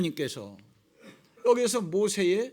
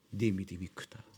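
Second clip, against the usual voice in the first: low, quiet blessing; 10 dB quieter than usual. Acted. Jesus praises the woman's faith.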